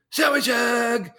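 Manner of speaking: high, loud and slow, a hammed-up cheerful voice; Jesus voice. Jesus greeting the boy, hammed-up high slow call. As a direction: boom it out slowly like a jolly figure. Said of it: "He says".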